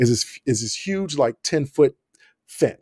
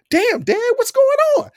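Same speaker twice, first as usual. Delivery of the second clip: yelled protest. Retold or imitated. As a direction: shout it up high, half laughing in shock. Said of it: "'cause I yell out".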